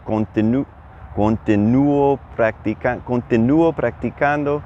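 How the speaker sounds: slow stumbling restarts on "continuo practicando"; tripping over the word. Retold or imitated. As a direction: fumble "continuo", restart, then land "continuo practicando". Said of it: "easy to trip over this thing".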